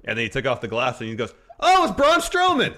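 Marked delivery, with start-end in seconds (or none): 1.6-2.7 high, very loud mock amazement; over-the-top wrestling commentary yell; astonished commentator shout. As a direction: holler it like a stunned announcer, names drawn out. Acts out commentator's astonished reveal.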